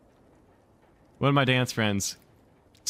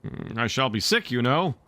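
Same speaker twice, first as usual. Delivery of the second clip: threatening; 3 semitones higher than usual. Acted. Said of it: "said threateningly".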